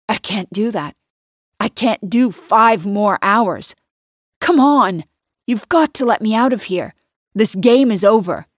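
1 rising desperation. Acted. Desperate trapped man pleads.

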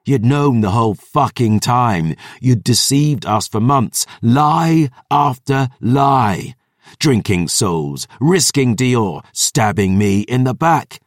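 put-on loud, rising drunken rage; furious tirade. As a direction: spit out every grievance.

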